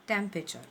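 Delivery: टेम्परेचर said tem-pre-cher with the r dropped at the end; correct pronunciation. Shown as a demonstration. Teacher giving the right way to say temperature. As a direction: model टेम्परेचर without the final r. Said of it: "सही pronouncing है".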